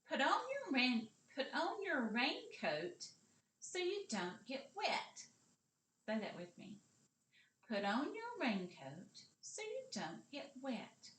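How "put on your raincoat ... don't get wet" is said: normal talking voice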